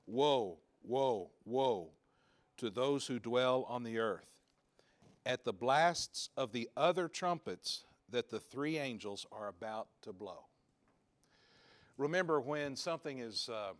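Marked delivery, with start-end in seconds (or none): 0.1-10.4 eagle crying loudly. Acted. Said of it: "an eagle crying with a loud voice".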